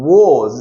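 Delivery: WAS modelled as one drawn-out syllable with a voiced ending; pronunciation demo. Shown as a demonstration. Teacher giving the pronunciation of a helping verb, WAS modelled clearly. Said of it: "इसका pronunciation होता है".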